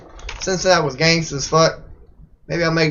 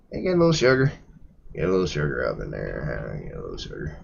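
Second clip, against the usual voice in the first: put-on old country accent; 13 semitones lower, 9 dB quieter than usual. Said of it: "the old country accent".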